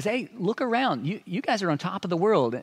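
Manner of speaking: mock-impressed sarcasm aimed at the Corinthians; sarcastic Paul. Paul mocking the proud Corinthians, sarcastic. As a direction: lay the irony on thick, pretending to admire. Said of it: "there's a lot of sarcasm and irony from Paul".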